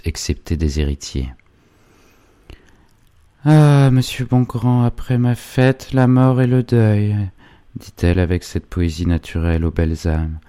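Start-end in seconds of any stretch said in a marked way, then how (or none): 3.4-7.2 put-on high, slow lament of a grieving girl; grief-stricken. A narrator's reading. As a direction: draw out the sorrow in a high voice. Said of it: "Ursule laissait échapper un sanglot de temps en temps". (lamentation endeuillée, aiguë et lente)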